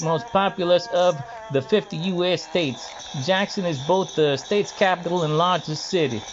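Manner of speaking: a light, rhythmic Hal Mississippian lilt leaning on the U vowels; Hal Mississippian dialect. Shown as a demonstration. First reading of an article for viewers, mild Hal Mississippian dialect. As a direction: read it with a lightly put-on Hal Mississippian dialect, keeping time to the beat. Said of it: "reading in the, uh, Hal Mississippian dialect".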